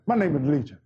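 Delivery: very low demon voice; demon Legion. Acted. Demon Legion naming himself to Jesus, low demon voice. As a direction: drop right down to announce yourself. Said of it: "Legion jumped up and said".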